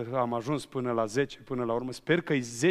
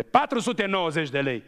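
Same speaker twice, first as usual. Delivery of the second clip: irritated tone; 3 semitones higher, 4 dB louder than usual. Retold or imitated. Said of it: "pe un ton din ăla".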